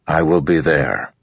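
flat. Acted. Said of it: "Dalinar said flatly".

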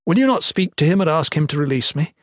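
impassioned appeal for a second chance; pleading. A narrator's reading. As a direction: implore with mounting urgency. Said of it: "he pled".

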